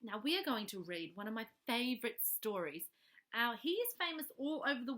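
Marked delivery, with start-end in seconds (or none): 0.0-2.8 soft hushed whisper to the listener. Real, not acted. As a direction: whisper it like a secret story time. Unvoiced whisper opening.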